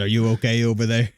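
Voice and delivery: calling out. Acted. Calling out across.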